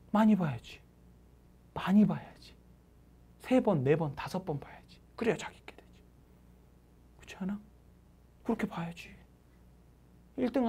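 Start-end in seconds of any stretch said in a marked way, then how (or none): 1.7-2.5 whispered insistence; hushed, intense repetition. Real, not acted. Whispered repeat of advice. 4.2-7.6 whispered insistence; hushed, intense repetition. Real, not acted. Whispered advice. 8.4-9.1 whispered insistence; hushed, intense repetition. Real, not acted. Whispered advice.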